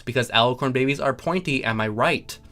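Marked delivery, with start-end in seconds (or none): none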